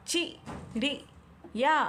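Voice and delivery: चिड़िया stretched slowly, sound by sound; slow option reading. Shown as a demonstration. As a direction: read चिड़िया very slowly for the class. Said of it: "तो इसमें से कौन सा सही होगा?".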